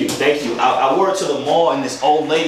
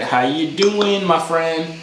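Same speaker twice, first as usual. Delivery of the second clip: mock sweet; 3 semitones higher, much slower than usual. Shown as a demonstration. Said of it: "No, I said".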